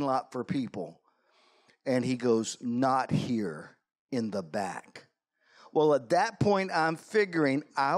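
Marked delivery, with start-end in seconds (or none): 2.6-5.1 lightly imitated gruff biker; a hint of gruff menace, retold. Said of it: "in his gruff voice".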